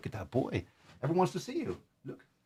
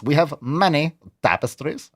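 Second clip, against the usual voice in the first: much higher, squeaky proud lord; silly high voice; 4 semitones higher than usual. Acted. Host copying the ad's tapestry line in a squeaky voice. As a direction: boast in a squeaky castle voice. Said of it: "I'm really getting that voice down".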